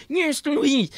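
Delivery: high, loud garbled yelling; imitated screaming. Big scary stranger screaming at the driver, garbled imitated screech. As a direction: screech an unintelligible tirade in imitation. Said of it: "he just started screaming at me".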